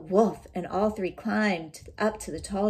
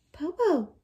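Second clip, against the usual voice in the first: shouting; 8 semitones higher than usual. Acted. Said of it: "Shang shouted".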